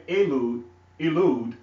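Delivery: "Elud" twice, opening on an ee sound; misheard as "Elud". Shown as a demonstration. Teacher showing how his word sounds, "Elud" with an ee opening. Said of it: "let's say by pronunciation, it sounds like I'm saying".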